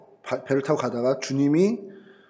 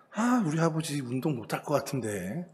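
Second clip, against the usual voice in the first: quiet worried thought; 6 dB quieter than usual. Retold or imitated. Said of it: "이런 걱정과 염려를 하는".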